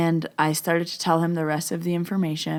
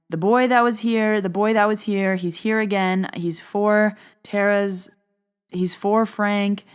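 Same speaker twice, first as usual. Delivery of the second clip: raised, higher and louder call through the house; retold yelling; 4 semitones higher, 4 dB louder than usual. Walking in calling to Joe about the boy, raised voice. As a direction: call out urgently as you walk in.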